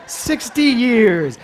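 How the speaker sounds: slow loud Sixty years through a laugh; preacher laughing at her age; laughing emphasis. Real, not acted. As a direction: laugh and stress it. Repeated with laughter.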